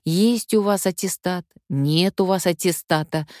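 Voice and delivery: usual speaking voice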